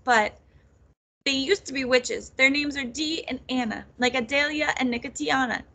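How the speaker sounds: high, urgent, upset rush of explanation; tearful. A narrator's reading. Nettle begs her cousin to help their mothers, tearful. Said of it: "the tears streaming down her face".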